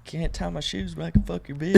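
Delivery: high-pitched imitation of a boy; mock child brag, breaking into laughter; little kid. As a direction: quote the video in a squeaky kid voice. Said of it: "that little kid".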